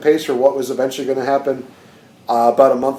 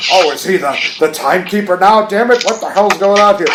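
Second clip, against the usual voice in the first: hissy fit; 4 semitones higher than usual. Retold or imitated. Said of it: "just having a hissy fit".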